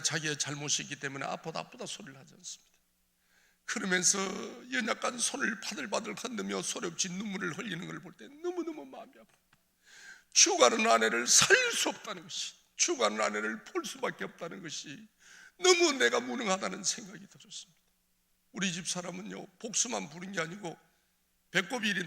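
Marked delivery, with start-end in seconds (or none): 4.7-9.6 anguished cry. Real, not acted. Testimony rising into anguish. 10.3-17.8 loud, high cry of helplessness; anguished outcry. Real, not acted. Preacher cries out his helplessness.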